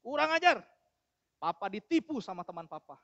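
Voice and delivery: acted indignant outburst, easing off after the first words; a touch of fatherly outrage; mildly angry father. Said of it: "papanya ini datang marah-marah".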